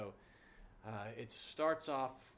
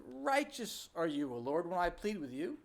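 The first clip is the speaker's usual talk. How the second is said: respectful; 3 semitones higher than usual. Retold or imitated. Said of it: "He's trying to be respectful".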